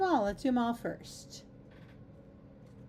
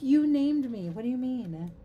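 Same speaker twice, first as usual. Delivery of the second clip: incredulous; 4 semitones higher, 5 dB louder than usual. Retold or imitated. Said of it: "I was like".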